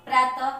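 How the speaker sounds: "प्रातः" said loudly with a final breathed h; अंत में ह. Shown as a demonstration. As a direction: finish "प्रातः" on an h sound. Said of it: "इसका उच्चारण अंत में ह आता है". ("प्रातः" के अंत में ह की ध्वनि)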